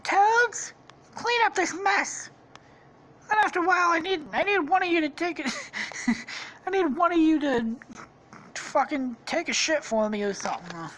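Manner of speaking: very high, commanding falsetto; Princess Peach. Acted. Princess ordering her guards about, high falsetto. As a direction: give orders as a cartoon princess. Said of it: "Princess Peach is like".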